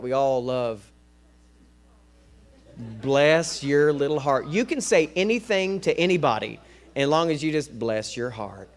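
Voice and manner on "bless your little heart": slow, louder Southern-style sweetness; sugar-coated pity. Acted. Preacher quoting a beloved Southern saying, sugar-coated pity. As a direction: lightly lay on the sugar-coated sympathy. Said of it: "sugar-coated with a Southern saying".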